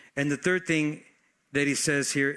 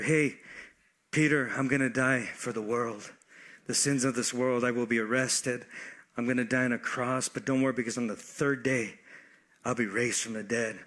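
lightly voiced Jesus, lower and subdued; calm Jesus; 5 semitones lower, 3 dB quieter than usual. Jesus telling Peter he will die, calm and low. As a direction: quietly break hard news, lightly acted.

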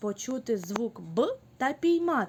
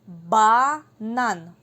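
1 loud call; 10 dB louder than usual. Shown as a demonstration. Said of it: "піймайте це слово".

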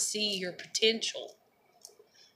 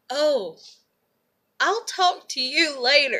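higher, louder mocking goodbye through laughter; mocking, laughing; 7 semitones higher, 6 dB louder than usual. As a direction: parody their brush-off while laughing. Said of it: "they was like".

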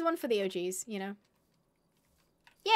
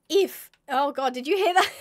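laughing; 2 semitones higher, 7 dB louder than usual. Real, not acted. Laughing at own voice crack.

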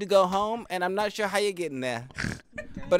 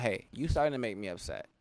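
calm quiet warning; 7 semitones lower, 7 dB quieter than usual. Retold or imitated. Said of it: "me warning people".

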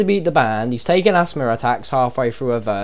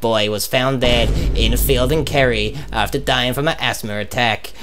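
Pascal Sheehy; 2 semitones lower than usual. Pretend. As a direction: read it like the evening news anchor. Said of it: "with me, your host, Pascal Sheehy".

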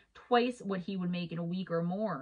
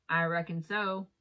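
slow, lightly voiced country accent; a rough stab at a country drawl; attempted country accent. Garage attendant answers the stranger, attempted country accent. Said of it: "Sorry, my accent's not that good".

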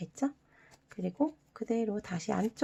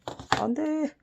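sudden no; 8 semitones higher than usual. Acted. Warning kids not to cut.

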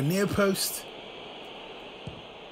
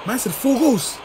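laughing; 14 semitones higher, 3 dB louder than usual. Real, not acted. Laughing at his own hype.

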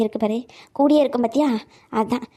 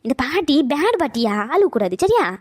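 playful coaxing. Acted. Grandmother coaxing crying child.

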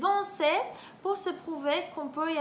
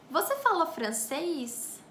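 slow phrase demo. Shown as a demonstration. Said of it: "Parlez-vous français?".

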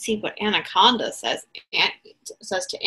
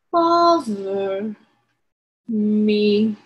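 slow sleepy sloth; much slower than usual. Acted. Sloth voiced in story.

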